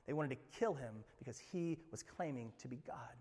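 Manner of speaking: hushed, breathy whisper. Real, not acted. Pastor whispering the grim point to the congregation. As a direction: drop to a whisper for effect.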